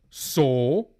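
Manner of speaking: loud, angry one-word retort; mad husband. Acted. Husband to his wife alone at home, angry. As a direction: snap it out loudly as the angry husband. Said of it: "He's mad reading the fucking".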